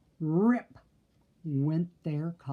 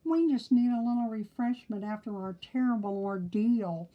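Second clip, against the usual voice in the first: mumbling with a mouth full; 4 semitones higher than usual. Acted. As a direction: talk through a mouthful of chocolate. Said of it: "mumbled through a mouthful of chocolate".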